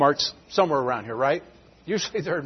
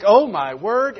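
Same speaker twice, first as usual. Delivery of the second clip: higher-pitched mock dismay at a racket; startled reaction; 4 semitones higher, 4 dB louder, slower than usual. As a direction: exclaim it, taken aback by the noise. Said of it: "His screech and scream is so loud".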